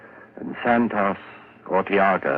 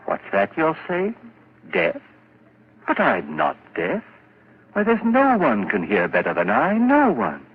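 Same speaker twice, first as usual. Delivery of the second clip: agitated denial; 6 semitones higher, 3 dB louder than usual. Acted. Deaf man denies being deaf.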